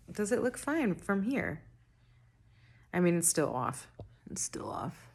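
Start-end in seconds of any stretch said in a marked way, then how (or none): 4.3-5.1 whispered under her breath. Real, not acted. Checking her makeup in the camera, whispering. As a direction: mutter it to yourself unvoiced. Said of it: "repeats in a whisper".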